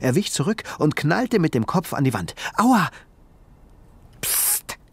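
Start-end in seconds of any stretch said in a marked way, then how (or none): 2.6-2.9 sharp high cry of pain; boy yelps after banging his head; ouch. Acted. Ben bumps head on wall. 4.2-4.8 unvoiced, scolding shush; tiny creature hushes the boy. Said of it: "schimpfte die winzige Kreatur".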